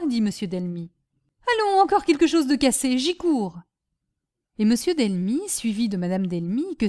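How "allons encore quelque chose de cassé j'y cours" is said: raised, louder exclamation; agitated. Acted. Husband rushing to the breakage, agitated. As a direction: react urgently to another crash. Master hears another crash.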